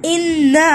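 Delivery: इन्ना with the नून held long, rising; doubled n in इन्ना. Shown as a demonstration. Teacher drilling children on a doubled letter, इन्ना with held n. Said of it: "हमजा नून जेर इन, नून जबर ना".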